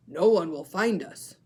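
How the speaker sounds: a lost seal pup starting to cry; crying Baby Seal. Shown as a demonstration. Teacher redoing Baby Seal, tearful. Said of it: "I did the voice wrong".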